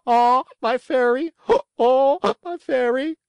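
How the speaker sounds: very high, loud cry of joy; joyful cry. A narrator's reading. Pinocchio crying out to his fairy in the crowd, very high loud joyful cry. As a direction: cry out to her with all your heart. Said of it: "tried his best to cry out".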